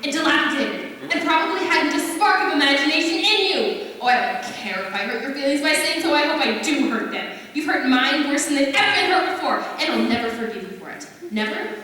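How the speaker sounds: temper. Acted. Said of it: "Have you ever seen such temper?".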